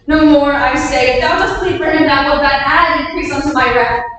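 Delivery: angry command. Acted. King rebukes the queen for pleading, angry and loud. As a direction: cut her off with rising wrath.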